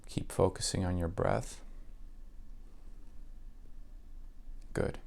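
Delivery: even, unhurried meditation voice with long pauses; calm, level delivery, letting each phrase settle; guided meditation. Acted. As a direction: guide the listener gently into relaxation.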